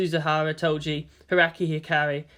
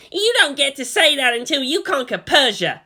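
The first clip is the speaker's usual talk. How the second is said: put-on higher, louder teasing boy's voice; mocking Kensuke; 9 semitones higher, 5 dB louder than usual. A narrator's reading. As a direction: challenge her boast with scorn. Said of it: "Kensuke got up and pointed at her".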